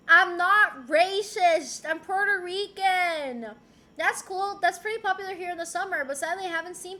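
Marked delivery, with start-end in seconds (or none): 0.1-3.5 mock defensive.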